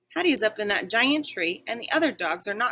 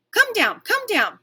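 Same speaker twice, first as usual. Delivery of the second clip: much higher, louder repeated bark; barking plea; 9 dB louder than usual. A narrator's reading. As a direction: beg her down, barking. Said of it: "I bark again and again".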